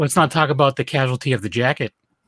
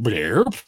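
short spoken bubbling noise; imitated blurp; 4 semitones lower than usual. Showing how the earth moved, imitated blurp. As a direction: make the blurp of earth popping up.

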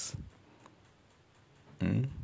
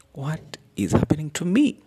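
higher, louder anguished plea; distressed cry; 10 semitones higher, 8 dB louder than usual. Retold or imitated. The sister asking herself after her miscarriage, a louder anguished cry. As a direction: cry out in despair. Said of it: "she's asking herself questions".

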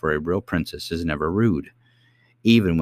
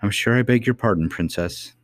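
hurt pride; 4 semitones higher than usual. Acted. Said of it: "though still in an offended tone".

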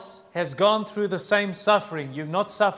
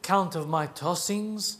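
solemn scripture reading. A narrator's reading. Preacher reads David's psalm to the congregation, solemn and declaiming. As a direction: read it out with weight, line by line.

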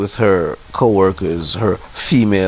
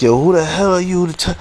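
raised-pitch indignant challenge; indignant confrontation; 9 semitones higher than usual. Retold or imitated. Customer retelling his challenge to the clerk, indignant. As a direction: re-enact an affronted challenge to a clerk.

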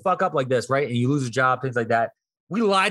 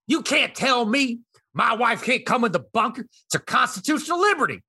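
hammed-up indignant shout, rising higher; mock yelling husband; 5 semitones higher than usual. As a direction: play the outraged husband demanding entry. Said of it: "starts yelling".

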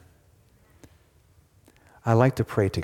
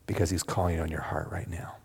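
whisper; 4 semitones lower, 8 dB quieter than usual. Real, not acted. Preacher's intimate altar appeal.

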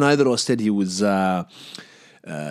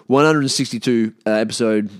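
loud announcement; 5 dB louder than usual. Real, not acted. Announcing the episode number to listeners, loudly.

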